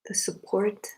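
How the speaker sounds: unhurried meditation guidance in short phrases with long pauses; spacious, measured meditation leader's delivery; guided meditation. Acted. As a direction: guide them gently into the breath, leaving long silences.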